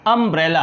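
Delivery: "अम्ब्रेला" said clearly, opening on a short "uh"; model pronunciation. Shown as a demonstration. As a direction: demonstrate "अम्ब्रेला" for learners. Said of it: "इसका जो pronunciation क्या है".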